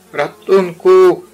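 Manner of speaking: high, loud, stretched yell; cry for help. Acted. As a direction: wail for help while tumbling down. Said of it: "zawołał".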